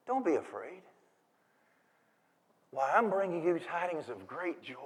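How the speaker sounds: soft, hushed angel's announcement; calm a frightened listener, very softly; quiet, tender good tidings; gentle reassurance. Acted.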